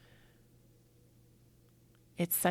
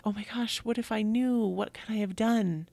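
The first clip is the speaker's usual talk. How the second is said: higher, louder self-reproach; acted guilt; 4 semitones higher, 4 dB louder than usual. Imagining a griever's what ifs, guilt-ridden. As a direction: act out anguished second-guessing, voice lifted. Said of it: "maybe even that guilt of".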